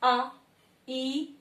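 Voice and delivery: आ, ई each held twice as long; long vowels. Shown as a demonstration. Teacher showing double-length vowels, held long. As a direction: stretch आ and ई evenly. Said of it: "दुगना समय जहां लगे".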